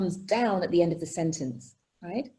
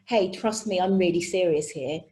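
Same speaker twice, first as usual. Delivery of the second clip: lower, serious cat-like delivery; serious, trust me; 3 semitones lower than usual. Acted. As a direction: ask for trust with gravitas. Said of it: "when you want to pull out the bag".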